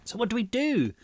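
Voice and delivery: high, pleading question; desperate. A narrator's reading. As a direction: ask with desperation in the voice. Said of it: "his voice laced with desperation".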